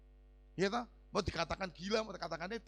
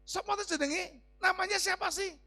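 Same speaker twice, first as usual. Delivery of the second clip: retold questioning; 10 semitones higher, 6 dB louder than usual. Acts out asking friends the name.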